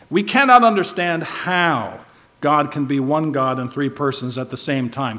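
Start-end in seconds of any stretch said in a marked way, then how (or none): 0.1-2.0 slow and louder, landing on "how"; stress on how. Shown as a demonstration. The preacher repeating the point, stressing "how" slowly. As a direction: drive home "how" deliberately. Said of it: "I'm emphasizing the word how".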